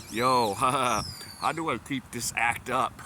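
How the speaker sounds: slow words broken by laughter; laughing. Real, not acted. Asking himself how to keep the act up, laughing. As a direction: try to speak through giggles. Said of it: "laughing 'cause I'm just like".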